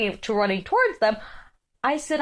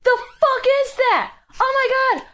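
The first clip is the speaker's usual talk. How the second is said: mock scared girl; 10 semitones higher, 3 dB louder than usual. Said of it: "She's like".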